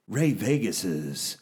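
slow drawn-out showman announcement; ringmaster. Acted. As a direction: stretch the title like a big reveal. Drawn-out segment title announcement.

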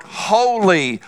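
slow, drawn-out holy cry; a hint of heavenly chant; angels crying out. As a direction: intone it like angels calling. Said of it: "they're crying out".

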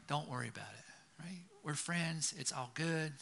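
soft, half-whispered reassurance; easygoing friend. Retold or imitated. Forgiving friend tells the boy it's fine, softly. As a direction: brush it off softly, barely voiced. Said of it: "He's like".

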